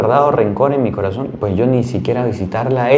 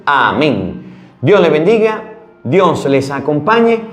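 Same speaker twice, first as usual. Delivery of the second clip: slow, raised solemn benediction; priestly blessing; 5 semitones higher, slower than usual. Acted. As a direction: bless the congregation, slow and lifted. Priest gives final blessing. (bendición sacerdotal solemne y pausada)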